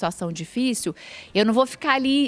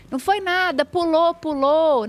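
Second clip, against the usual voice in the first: minimizando; 5 semitones higher than usual. Retold or imitated. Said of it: "quando eu ver uma criança triste".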